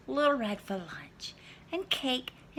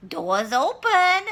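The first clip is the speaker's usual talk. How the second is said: put-on higher, slow old lady; Granny; 8 semitones higher, 9 dB louder, slower than usual. Granny calling the wolf in, higher and slow. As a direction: call out slowly like a grandmother.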